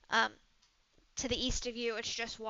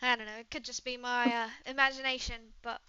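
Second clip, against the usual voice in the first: chatty British traveler; British woman, musing; 2 semitones higher, 6 dB louder, faster than usual. Acted. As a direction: puzzle it out in a British accent, then brush it off.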